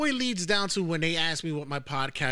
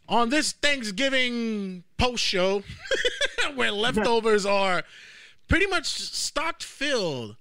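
wrestling promo; 3 semitones higher, slower than usual. Acted. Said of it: "Cutting a promo".

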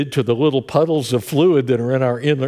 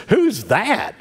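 mom's puzzled question; 8 semitones higher than usual. Retold or imitated. Mom hearing her own voice on video.

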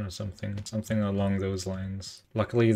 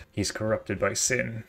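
ominous slow line. Acted. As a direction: let it sink in slowly. Villain reason voiced twice.

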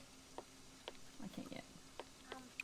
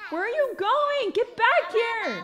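calling out; 9 semitones higher, 8 dB louder, slower than usual. Real, not acted. Calling after escaping toddler.

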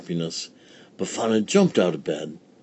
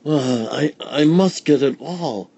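put-on higher, anxious old woman; old village woman; 6 semitones higher, 3 dB louder than usual. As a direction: fret like a tired old woman. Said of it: "said Befana".

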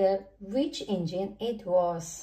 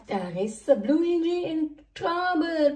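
puffed; 6 semitones higher than usual. A narrator's reading. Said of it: "puffed Flynn as he raced".

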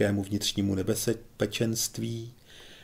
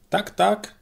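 eager agreement; 11 semitones higher, 5 dB louder than usual. A narrator's reading. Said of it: "přizvukovali jiní".

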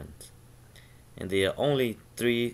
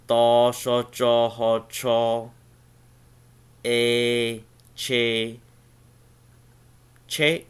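"ta, sha, cha, ha, cha, a, che, che" called out louder, each syllable punched; louder syllable drill; 5 dB louder, slower than usual. Shown as a demonstration. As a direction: drill the Hmong syllables out loud for the class. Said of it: "Che is the word for car".

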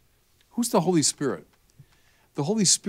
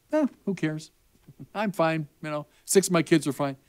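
acted shrug, a little higher; mock indifference; 4 semitones higher than usual. Imagined mother in heaven dismissing her wayward seventh child, mock indifferent. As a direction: brush it off like an unbothered mother. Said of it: "what's her attitude?".

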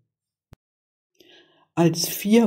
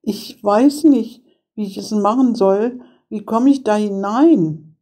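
higher girlish voice, playing clueless; puzzled child's voice, pitched up; feigning girl; 6 semitones higher than usual. A narrator's reading. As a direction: ask innocently as a little girl. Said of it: "merkte, was die Hexe im Sinn hatte, und sprach".

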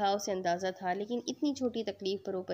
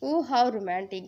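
mocking tease; 5 dB louder, much slower than usual. Teasing her husband.

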